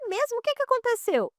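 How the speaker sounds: high, playful feigned amazement; mock surprise. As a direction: act amazed to draw her out. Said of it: "Eu falei".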